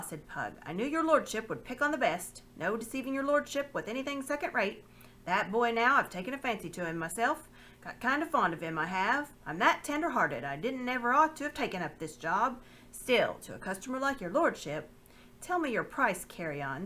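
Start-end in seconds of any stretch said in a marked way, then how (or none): 0.7-14.9 higher, louder, oily flattery; butter up the lord for a sale; fawning slaver. Acted. Pug flattering the lord to sell the boy, fawning. 15.4-16.9 stern. Acted. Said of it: "said the lord sternly".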